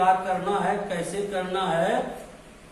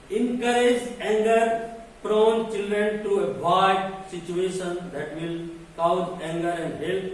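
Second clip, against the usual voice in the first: deliberate lecture-point dictation; slow dictation reading; much slower than usual. Acted. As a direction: read each English word out very slowly.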